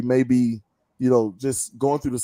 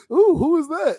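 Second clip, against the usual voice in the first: much higher, hammed-up swooning coo; smitten Mary Magdalene. Mary Magdalene noticing Jesus, high hammed-up smitten coo. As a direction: coo like she's just spotted a crush. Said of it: "But she was like".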